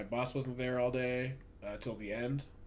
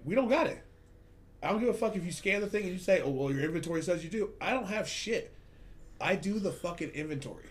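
raised, higher, faster angry retort to a customer; heated retold rant; 5 semitones higher than usual. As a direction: tell the pushy guy off, voice climbing high.

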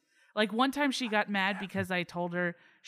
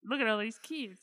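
put-on half-hearted, higher Roaring Twenties accent; 4 semitones higher, slower than usual. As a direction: attempt an old-time Roaring Twenties accent, badly. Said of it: "I can't do a Roaring Twenties accent".

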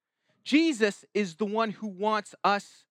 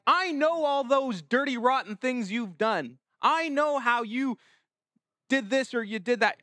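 lightly voiced accuser, higher pitched; accusing Satan; 4 semitones higher than usual. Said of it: "He's the one who's the accuser".

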